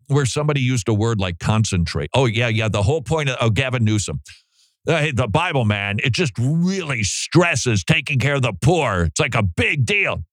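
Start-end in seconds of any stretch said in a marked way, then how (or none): 4.9-10.2 higher-pitched, punched-up imitation; mock earnest emphasis. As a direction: imitate someone overselling a point. Mimicking a politician overstating a theme.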